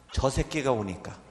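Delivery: usual speaking voice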